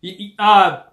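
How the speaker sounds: high, stumbling, caught-out stammer; flustered stammer. Real, not acted. Husband caught by his wife.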